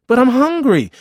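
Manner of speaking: put-on very high, loud childish wail; whining child, escalated. Hungry boy protesting to brother's refusal, loud whining. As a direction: push the whine right up, loud.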